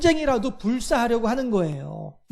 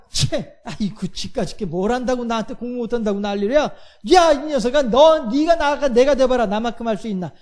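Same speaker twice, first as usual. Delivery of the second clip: mock indignant retort. Preacher voicing a student hit by a taunt, mock indignant retort. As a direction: playfully act out a student who snaps back at a passerby. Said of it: "뭐라고 해".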